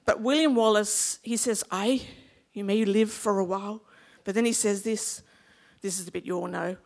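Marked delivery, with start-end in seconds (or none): 1.7-3.8 measured reply with a Scottish lilt; Scottish accent. Acted. William Wallace replying to his men, measured Scottish accent. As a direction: answer as a Scottish leader, unhurried. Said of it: "give my Scottish accent a go".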